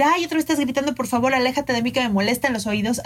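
exasperated, pitch lifted on the opening complaint; annoyed complaint. Retold or imitated. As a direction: complain to him like you're fed up. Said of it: "no es lo mismo decir".

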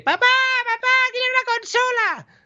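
put-on very high child begging papá. Child begging father for a console, very high voice. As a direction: beg like a small kid. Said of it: "Nos llevan al niño de".

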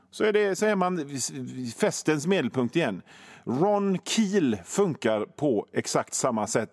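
usual speaking voice

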